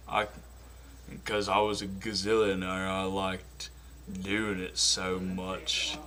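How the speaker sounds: lightly voiced slow Southern simpleton; slow earnest drawl; Forrest Gump. Forrest talking about Jenny and Bubba, slow drawl. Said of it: "Now for Forrest Gump".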